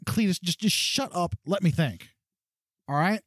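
lightly voiced woman cutting Cletus off; exasperated woman. Woman NPC tells Cletus to shut up, exasperated. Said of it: "She's like".

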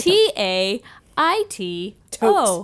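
T A I T O spelled letter by letter, slowly. Shown as a demonstration. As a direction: spell Taito out slow and careful. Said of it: "I can't say it".

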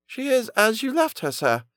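put-on high, thin old woman's voice; old nurse. A narrator's reading. Old nurse answers the merchant.

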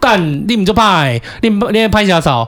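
yelling at the neighbour who hides; heated shouting. Retold or imitated. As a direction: dare the neighbour to come out and talk. Reenacted confrontation shouting.

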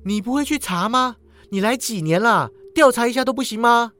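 愤怒地质问; angry. Acted. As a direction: fire the questions at him in anger. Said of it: "潘蜜拉怒道".

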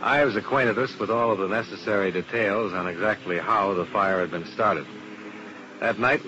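calm, even narration of the case; detective story narration. A narrator's reading. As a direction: tell it like a private eye's report.

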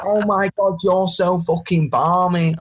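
excited model of British slang; demonstrating British slang. Shown as a demonstration. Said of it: "That's what I'm saying. It's like".

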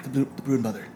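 hushed whispers among tribesmen; very soft, voiceless murmuring of rumour; whispering. Acted. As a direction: whisper it furtively to each other. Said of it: "begin to look around and whispering to each other".

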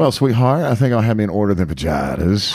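hint of an in-law, fajitas as vuh-JAI-tuhz; imitated mother-in-law. Replaying the singer's mother-in-law ordering, lightly mimicked mispronunciation. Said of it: "it's a running joke in the family".

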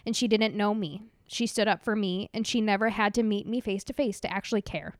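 tearful letter read aloud; crying while reading. Real, not acted. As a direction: read through real tears. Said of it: "she's already sobbing".

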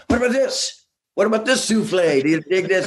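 selling the idea hopefully; eager songwriter pitching his idea. Retold or imitated. Pitching song to critic bandmate.

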